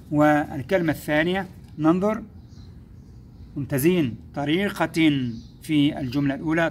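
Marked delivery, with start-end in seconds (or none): 4.4-5.3 طريقة ending in a clear -tin; tanween kasr. Shown as a demonstration. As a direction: sound the final -in of طريقة. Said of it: "بها تنوين كسر".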